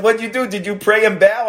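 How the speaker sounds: put-on high, eager child's question; grandson's voice. Grandson begging grandpa for the rest of the story. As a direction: ask like an excited small boy. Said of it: "my grandson says".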